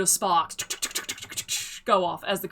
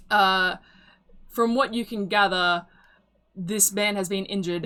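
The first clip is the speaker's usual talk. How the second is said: ordinary delivery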